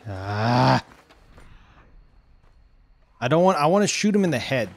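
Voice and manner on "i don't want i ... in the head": fast and louder, words tumbling; eager rush. Real, not acted. Streamer explains shot to chat, fast eager rush.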